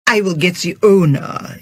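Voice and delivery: stiff intoning head waiter, lightly voiced; solemn and formal, a hint of pomp; intoned. Head waiter to unhappy diners, intoned. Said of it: "intoned the head waiter".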